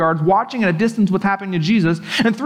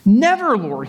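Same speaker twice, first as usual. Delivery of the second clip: rebuking; 2 semitones higher, slower than usual. Acted. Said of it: "began to rebuke him".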